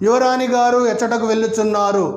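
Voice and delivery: formal courtly Telugu, rattled off fast; రాజభాషలో వేగంగా; royal court Telugu. Shown as a demonstration. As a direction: speak like a palace servant addressing the princess. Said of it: "the language, suppose, let me say, by kings".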